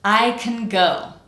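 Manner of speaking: slow, CAN squeezed to "kn" between I and GO; reduced can. Shown as a demonstration. Teacher models example sentence for practice, reduced can. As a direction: clear I and GO, vowelless CAN. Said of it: "let's practice that in our example sentence".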